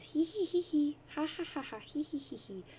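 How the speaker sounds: high mocking giggle, fading off; troll giggle. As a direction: cackle at him like a troll. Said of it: "And she says".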